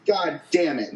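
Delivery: furious yell to close the rant; angry shout. Real, not acted. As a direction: bellow it out in rage. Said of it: "demons that you need to get out".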